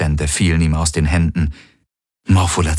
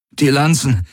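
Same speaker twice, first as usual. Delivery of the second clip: high, effortful gasp; 8 semitones higher than usual. A narrator's reading. Garland telling them to grab the lances, gasping. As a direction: pant the order out. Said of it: "keuchte Garland".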